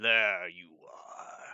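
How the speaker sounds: deep looming giant character voice. Voicing a giant spotting a hider in the rubble: giant's voice. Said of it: "it just sort of says".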